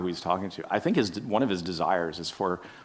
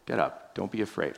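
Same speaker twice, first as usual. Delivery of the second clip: gentle reassurance; 2 semitones lower, 6 dB quieter than usual. Pretend. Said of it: "more that kind of a tone".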